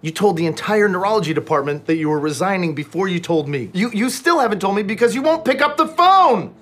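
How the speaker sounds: loud, high angry rant building to a yell; furious rant. Acted. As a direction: yell it into the phone. Ranting on friend's answering machine.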